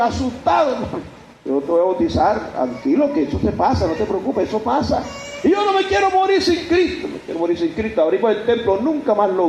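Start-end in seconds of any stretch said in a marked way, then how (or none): 1.5-5.0 gentle reassurance. Retold or imitated. Pastor calms frightened man. 5.4-8.0 desperate cry that drops away at the end; frightened plea. Retold or imitated. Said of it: "y llorando".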